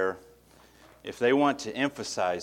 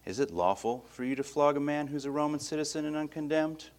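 lowered tone; 5 semitones higher, 5 dB quieter than usual. Retold or imitated. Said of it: "in a lowered tone saying".

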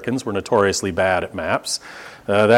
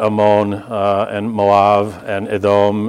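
Ammon, Moab and Edom each weighted on the final syllable; stress on last syllable; 2 semitones lower, slower than usual. Shown as a demonstration. Preacher applying his rule for Hebrew names, final syllable stressed. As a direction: land on the end of each name: Ammon as a-MOAN, Moab as mo-AB, Edom as eh-DOME. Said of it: "let's put the emphasis on the last syllable".

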